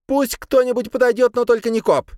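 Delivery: high, tense threatening voice; threatening woman. A narrator's reading. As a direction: threaten them, voice pitched high. Sabrina sets terms.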